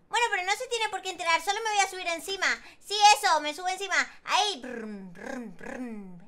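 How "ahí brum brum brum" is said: low mock motor brum; engine noises. Girl riding the parked motorbike, low engine brum. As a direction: rumble like a toy motorbike.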